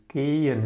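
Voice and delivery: gehen as "GAY-en", no h sounded; correct pronunciation. Shown as a demonstration. Teacher repeating it for learners, gehen with silent h. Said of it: "it's pronounced gehen".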